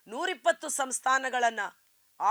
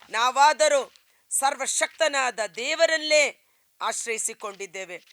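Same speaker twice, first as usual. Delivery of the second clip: loud declaration; 7 dB louder than usual. Real, not acted. Preacher declaring trust in God.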